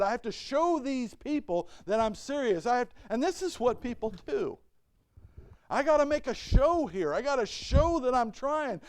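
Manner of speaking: a proud king arguing with himself; king's inner voice. Retold or imitated. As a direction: talk yourself into a show of force. Voicing the king's reasoning.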